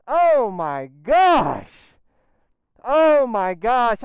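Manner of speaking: slow, loud, drawn-out amazement; awed oh my gosh. Real, not acted. Rider stunned by the modded bike's pull, slow loud awe. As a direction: stretch it out in awe.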